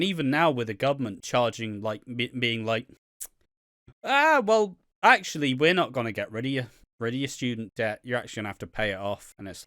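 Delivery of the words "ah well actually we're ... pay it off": smug official. Retold or imitated. Government voiced, smug.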